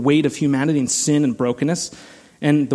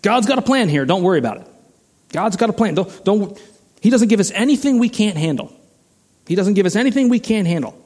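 self-righteous religious folks; 6 semitones higher, faster than usual. Acted. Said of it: "maybe self-righteous religious folks will say".

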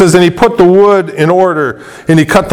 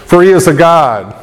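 mocking. Elijah taunting the prophets of Baal, mocking. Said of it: "Elijah mocked them and said".

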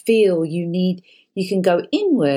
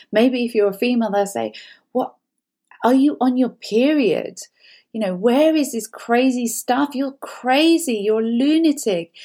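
higher, quicker, scoffing partner brushing you off; dismissive partner; 4 semitones higher than usual. Retold or imitated. Partner turning your complaint back on you, mockingly dismissive. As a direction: play the partner who mocks your concern. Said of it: "They'll turn around and say things like".

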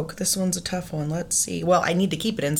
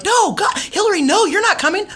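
higher whiny refusal, no God Hillary; mock bratty sister; 12 semitones higher, 3 dB louder than usual. Guest imitates her sister's friends refusing her. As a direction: sneer it like a teen big sister.

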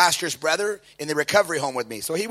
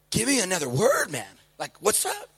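excited; 5 dB quieter than usual. Retold or imitated. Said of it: "all excited".

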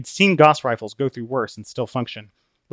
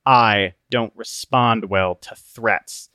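slow, menacing understatement; Obstinate, cold; much slower than usual. Acted. Obstinate warning Christian, cold and slow. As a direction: lay each word down slowly.

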